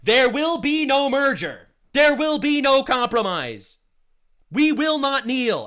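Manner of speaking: slow, loud rally speech in a put-on British accent; mock British accent. Mocking a British nationalist to viewers in a slow, loud British accent. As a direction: thunder it like a British nationalist leader. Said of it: "I say we like I'm British".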